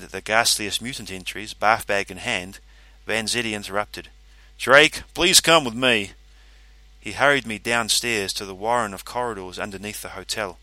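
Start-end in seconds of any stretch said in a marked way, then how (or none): 4.6-6.1 slow, firm official voice; stern official voice. Acted. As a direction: summon him with cool authority. Vanzetti voiced in story.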